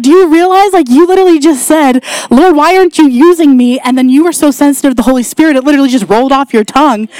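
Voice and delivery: high, emphatic retold amazement; amazed. Friend telling her God just used her, amazed. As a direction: press the point like an astounded friend.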